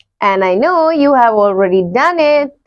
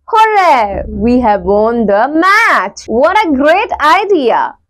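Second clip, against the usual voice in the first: read-out excitement. Shown as a demonstration. Teacher demonstrating exclamatory sentences to students, mild excitement. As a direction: act out the exclamations with a touch of joy. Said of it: "These sentences express a strong feeling or emotions".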